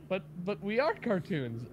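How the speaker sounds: high-pitched girl host impression; imitated cartoon girl. Retelling the clip's girl host, imitated high girl voice. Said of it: "the girl's like".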